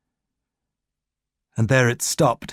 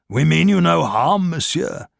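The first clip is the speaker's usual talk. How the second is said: put-on smooth German-accented false assurance; 4 semitones higher than usual. A narrator's reading. Gestapo officer to Ricard, German-accented reassurance. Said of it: "bearing a heavy German accent".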